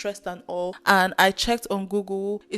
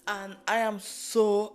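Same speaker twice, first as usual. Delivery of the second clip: usual speaking voice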